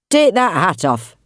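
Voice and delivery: put-on slow, commanding Yorkshire accent. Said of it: "in a Yorkshire accent".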